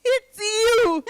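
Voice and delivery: high, giggling teasing; laughing. Acted. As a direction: laugh through a playful accusation. Playful teasing, laugh heard.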